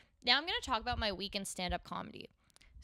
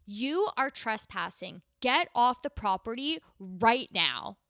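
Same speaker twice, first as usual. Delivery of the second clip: slow, louder booming warning over a loudspeaker; loudspeaker announcement; 6 dB louder, slower than usual. Retold or imitated. Security loudspeaker orders comedians off the property, booming slow warning. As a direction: boom it out like a security PA system. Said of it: "huge voice comes over the entire area".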